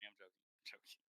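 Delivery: breathy whisper. Real, not acted. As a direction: whisper it under your breath. GM whispers joking.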